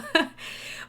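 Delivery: shaky teary laugh-sigh. Real, not acted. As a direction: breathe out shakily through tears. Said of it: "I'm trying not to cry".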